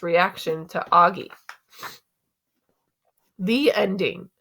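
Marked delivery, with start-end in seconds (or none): 3.4-4.3 hushed whisper, hiding a spoiler. Shown as a demonstration. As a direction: whisper it so nobody hears the spoiler. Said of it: "I didn't want to give away the ending".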